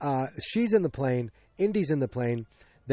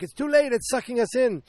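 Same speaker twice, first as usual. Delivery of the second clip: mock panic; 9 semitones higher than usual. Crew to villain, already pulled in: high mock panic. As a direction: cry out that it's too late. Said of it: "They're like".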